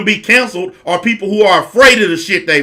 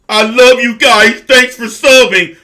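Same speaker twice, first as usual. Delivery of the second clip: slow, sugary mock creator sign-off; mock sweet youtuber; 3 semitones higher than usual. Mocking creators who pretend to love fans, slow and sugary. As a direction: drag out a fake-loving thank you to subscribers. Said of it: "So sick and tired of people doing that shit".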